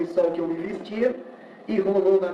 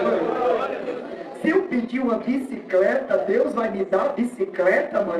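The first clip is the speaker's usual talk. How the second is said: higher-pitched, lightly acted child's question; eager child; 3 semitones higher, slower than usual. Boy asking his mother for a bicycle, mildly eager. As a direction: ask like a hopeful little boy, pitch lifted.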